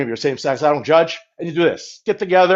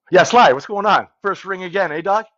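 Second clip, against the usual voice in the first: higher-pitched buddy hello; hearty phone greeting; 5 semitones higher, 3 dB louder than usual. Pretend. Calling Sly in front of viewers, hearty higher greeting. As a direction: greet an old pal picking up.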